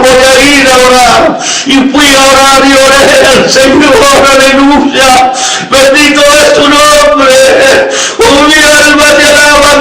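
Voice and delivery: impassioned testimony rising into praise; fervent preaching. Real, not acted. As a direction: preach it with sustained, ringing fervor.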